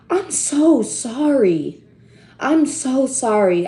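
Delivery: slow, remorseful apology; sincere and slowed right down; heartfelt sorry. Real, not acted. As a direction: drag out the regret, word by word. Apologising after the sad news.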